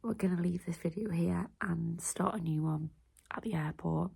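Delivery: whispering with retainers in; wearing a retainer. Real, not acted. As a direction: speak around a retainer. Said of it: "I've got my retainers in".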